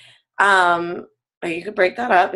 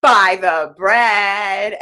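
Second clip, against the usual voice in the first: matter-of-fact quote; 3 dB louder, much slower than usual. Retold or imitated. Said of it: "and she goes".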